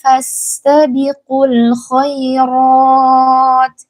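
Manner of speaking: slow, melodic Quran chanting; Quran recitation. Acted. Teacher reciting the verse for the mothers to follow, slow and melodic.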